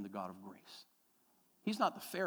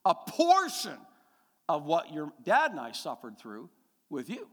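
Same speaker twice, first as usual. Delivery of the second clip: slow, high and louder demand; mom insisting; 6 semitones higher, 7 dB louder, slower than usual. Retold or imitated. Mother tells her son he should suffer, slow and high. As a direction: lean in like a mother wanting payback. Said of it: "She said".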